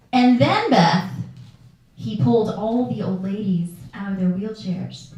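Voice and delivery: loud, hammed-up nurse building the story; mock outraged caretaker on the phone; nurse's emphatic complaint. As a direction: hit "Beth" hard like a scandalized nurse. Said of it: "Martha from Sunrise Kingdom".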